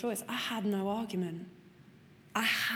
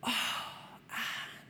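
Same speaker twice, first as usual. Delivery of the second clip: despairing mum; 3 semitones higher, 5 dB quieter than usual. Retold or imitated. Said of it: "And it was that".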